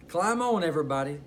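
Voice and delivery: duck calls out, pitch jumps up; excited duck shouting to the animals; shouted. Acted. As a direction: call everyone aboard. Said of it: "shouted Duck".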